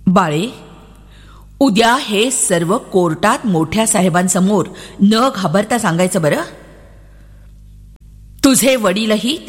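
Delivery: put-on calm a little girl before court; an officer gently preparing a child for court; reassuring officer.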